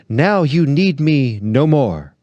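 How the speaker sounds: milk the self-pity like a ham actor; theatrical despair. Acted. Tragedian complaining to the lady, hammed-up slow despair. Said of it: "with a hackneyed gesture of despair".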